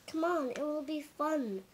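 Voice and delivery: bright, loud cheery greeting; chirpy ladybug calling out. A narrator's reading. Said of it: "the ladybug said".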